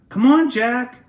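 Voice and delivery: high, loud call. Acted. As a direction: call him down the ladder. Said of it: "Annie called".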